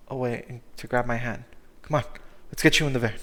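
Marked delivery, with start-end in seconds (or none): 1.8-3.2 urgent loud call. Acted. Cooper rushing Cyrus to van.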